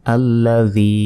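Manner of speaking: আল্লাযী with a doubled ল and a long, level final "ee"; measured recitation, drawing out the end of আল্লাযী; one-second elongation. Shown as a demonstration. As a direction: hold the last vowel of আল্লাযী for a second. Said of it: "এখানেও এক second টেনে পড়তে হবে".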